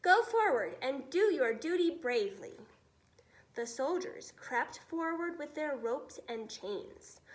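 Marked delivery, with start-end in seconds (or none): 0.0-2.6 louder call to duty; rallying order. Acted. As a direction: urge the men on bravely. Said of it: "the head of the army said".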